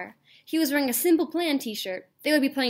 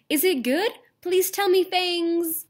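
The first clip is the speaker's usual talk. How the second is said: pleading author; 6 semitones higher, 4 dB louder, slower than usual. Acted. Author begging for reviews.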